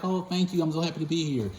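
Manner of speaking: put-on grateful elderly patient.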